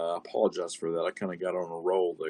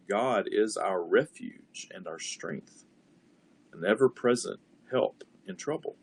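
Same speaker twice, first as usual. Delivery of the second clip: measured recitation of the verse; meditative reading. Shown as a demonstration. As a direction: savour each word. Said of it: "contemplating and meditating on each word".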